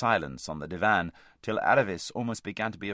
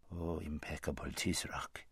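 oily scheming vizier; 4 semitones lower, 12 dB quieter than usual. Acted. Vizier fawning softly.

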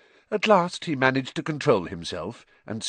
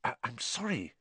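very soft, halting apology; hushed, faltering sorry; whispered apology; 11 dB quieter than usual. A narrator's reading. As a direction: drop right down and stammer it. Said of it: "he whispered".

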